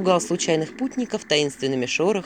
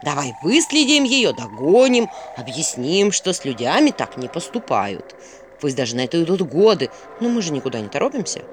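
mildly sarcastic; 2 semitones lower than usual. Acted. Owl mocks Vasilisa's worry about evil spirits, mildly sarcastic. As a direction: needle her with a sham plan. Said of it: "язвительно заметил Филин".

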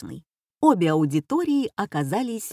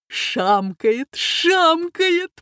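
high, loud gleeful shouting; hall laughing; 10 semitones higher, 4 dB louder, much slower than usual. A narrator's reading. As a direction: howl with delight across the hall. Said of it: "прокатилось по всему залу".

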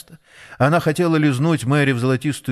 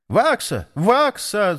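calling out; 8 semitones higher, slower than usual. A narrator's reading. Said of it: "закричал воробей с крыши".

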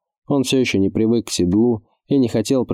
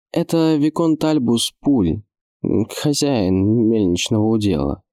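put-on tense young voice explaining; 3 semitones higher than usual. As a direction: say it tight and wary. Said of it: "напряжённо пояснил подошедший Адам".

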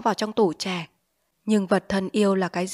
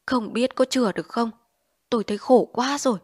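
pained complaint; 4 semitones higher than usual. Acted. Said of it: "Anh nhăn mặt để ợ nói".

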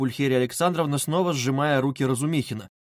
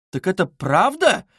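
loud, high, drawn-out question; startled mother's question; shocked cry; 6 semitones higher, 5 dB louder, slower than usual. A narrator's reading. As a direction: cry out in astonished dismay. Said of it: "вскричала Пульхерия Александровна".

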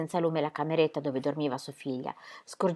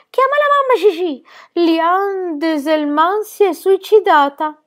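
grido; 12 semitones higher, 11 dB louder, slower than usual. A narrator's reading. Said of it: "Un grido della signora Alvarez".

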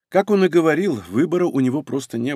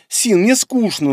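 higher, slow whiny complaint; whining; 8 semitones higher, 3 dB louder, slower than usual. Acted. Bored fox girl whining to Sin, higher and drawn out. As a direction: whine it like a bored child. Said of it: "начала она ныть".

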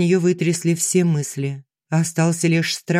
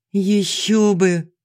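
exhaled; 3 semitones higher, much slower than usual. Acted. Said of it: "выдохнула я".

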